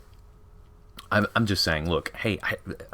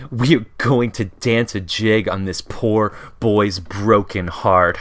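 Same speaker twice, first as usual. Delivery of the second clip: slow, louder, hammed-up gloating sisters; gleeful mean sisters; 3 semitones higher, 5 dB louder, slower than usual. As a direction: savor every word like a taunting villain. Gleeful sisters mocking heartbroken boy.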